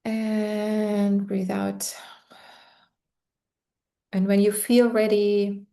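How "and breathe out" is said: slow, breathy whispered exhale cue. Acted. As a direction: whisper it out slowly.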